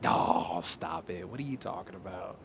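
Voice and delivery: low, scoffing disbelief; dismissive inner voice. Acted. Part of himself doubting what people say, dismissive. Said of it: "part of me that's like".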